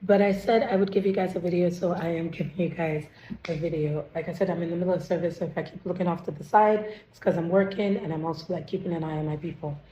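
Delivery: lost voice, raspy and strained; talking through a hoarse, worn-out throat. Real, not acted. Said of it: "as you can hear, I lost my voice".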